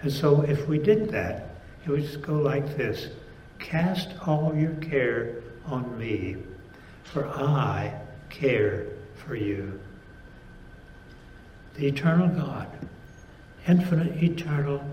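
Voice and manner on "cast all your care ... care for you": God speaking. Acted. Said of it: "restate it as God speaking himself".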